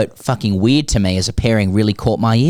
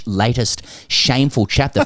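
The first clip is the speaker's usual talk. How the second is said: news headline voice. Pretend. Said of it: "in Fox Sports News headline voice".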